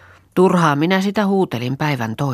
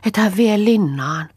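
a touch of sobbing, slow and higher; sobbing plea; 8 semitones higher than usual. A narrator's reading. Kerttu begging Saara through sobs, mildly sobbing. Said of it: "Kerttu hyrskien".

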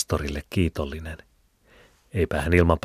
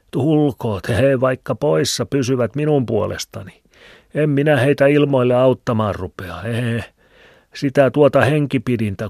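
put-on higher, louder old Filemoni with a cackle; old man's voice; 8 semitones higher, 6 dB louder than usual. A narrator's reading. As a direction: chuckle and ramble like an old hermit. (vanhan miehen hekottava ääni)

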